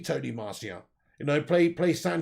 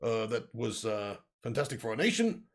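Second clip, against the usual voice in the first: Boris Johnson impression; 5 semitones lower than usual. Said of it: "Boris Johnson accent to".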